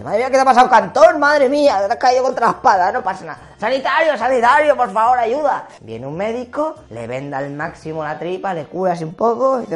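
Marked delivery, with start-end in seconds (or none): 0.0-5.7 loud, higher panicked calling; alarmed slave. Acted. Slave finds wounded Cato, shouts for a medic. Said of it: "pasa uno de sus esclavos y dice".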